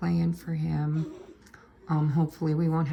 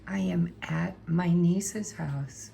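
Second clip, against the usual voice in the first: soft hushed whisper, slow; whispering over a crib; slower than usual. Real, not acted. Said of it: "I'm going to have to try to be quiet 'cause the baby's sleeping".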